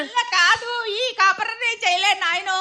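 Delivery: sobbing out that she can't go on; wailing lament to her husband; weeping complaint. Acted. Wife weeps to husband. (ఏడుస్తూ మొరపెట్టుకోవడం)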